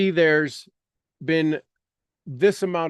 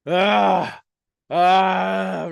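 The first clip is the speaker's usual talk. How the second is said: tense gasps; 3 semitones higher, 5 dB louder than usual. Shown as a demonstration. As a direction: push out tense stressed breaths. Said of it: "put your body in stress".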